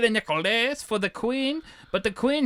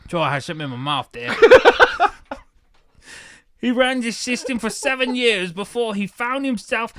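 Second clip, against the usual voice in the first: put-on Cockney accent; 2 semitones higher than usual. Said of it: "Cockney accent".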